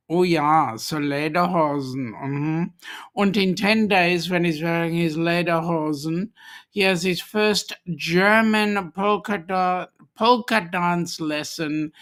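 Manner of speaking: mock German accent. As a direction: put on a playful German accent. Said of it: "do that with the accent".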